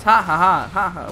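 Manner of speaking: staccato cartoon ha-ha-ha; cartoon laugh. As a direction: do the Dexter's Lab laugh. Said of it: "Dexter's Laboratory, where it goes".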